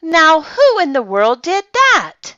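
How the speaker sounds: high, loud gruff-voiced watchman demanding; startled watchman exclaiming. A narrator's reading. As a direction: call out into the dark store. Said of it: "he exclaimed".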